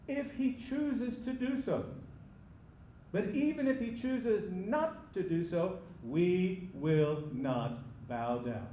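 "we will not" slow, each word stressed; defiant declaration. Acted. Acted defiant answer to the king.

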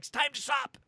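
high-pitched mock command; imitating him. Host quoting a man saying time to stop, imitating. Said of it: "he's like, he's like".

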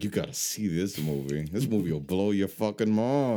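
words pushed through clenched teeth; through gritted teeth. Retold or imitated. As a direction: imitate a pushy salesman through teeth. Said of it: "He was talking through his teeth like you are".

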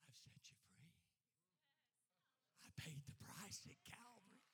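very low, near-whispered reply; quiet divine reassurance, barely voiced; God speaking softly. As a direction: drop to a hushed, low voice of God. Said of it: "And God is there saying".

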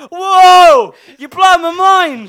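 loud, high, slow hammed-up awe; mock amazement. Imitating the chef shown paprika, loud hammed-up amazement. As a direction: gasp out wonder at paprika. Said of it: "Here, here's some paprika".

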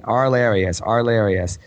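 "Arlarius" stretched to four syllables, ar-LAIR-ee-us; mispronounced name. Retold or imitated. Podcaster mimicking guildmates getting the name wrong, mispronounced. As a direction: repeat "Arlarius" with the added "ee" sound. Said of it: "They kept, like, saying".

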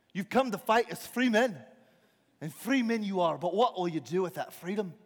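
lightly acted battlefield speech, easing off; William Wallace. Rider challenging free men, measured oratory. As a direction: put a solemn question to the troops. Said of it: "William Wallace rides up on his horse".

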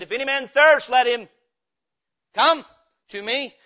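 crying out. Retold or imitated. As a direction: lift your voice and cry it out. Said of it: "He lifted His voice, He cried".

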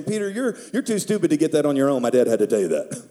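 mock blunt Jesus, dropping low at the end; hammed-up modern Jesus; jokey paraphrase of Jesus. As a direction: tease Peter like a blunt friend. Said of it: "translate what he was really saying".

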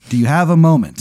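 a touch of the Count of Cheese begging a moment; regal count. Acted. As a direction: lightly play the polite foppy count asking a favour. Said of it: "He goes".

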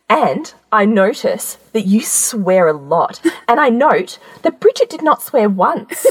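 slow, deliberate reproach; measured out word by word, as a pointed note; pointed maternal tone. Retold or imitated. Mum noting her daughter's swearing, pointed and deliberate. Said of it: "she said it in this, this tone".

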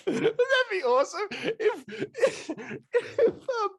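words squeezed out through high laughter; laughing. Real, not acted. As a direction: laugh while you try to speak. Laughing while talking.

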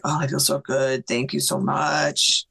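slow, relieved mock moan; understated moan of relief; retold moaning. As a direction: imitate someone groaning thanks, dragging out the words.

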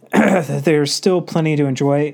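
stuffy nose from a cold; blocked nose. Real, not acted. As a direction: talk through a congested nose. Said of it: "pardon if I sound a little congested".

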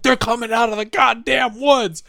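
high, loud yell from the watchtower; hammed-up soldier shouting; mock panicked yell. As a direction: scream the warning to the boss. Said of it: "screaming to his fucking boss".

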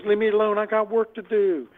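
imitated hot anger. Woman scammer to the man who keeps calling back, mock exasperated. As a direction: imitate a fed-up caller brushing someone off. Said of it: "Man, she was hot".

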